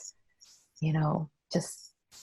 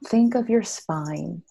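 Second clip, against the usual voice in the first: slow soothing image; slower than usual. Shown as a demonstration. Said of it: "did you see how I just sat up".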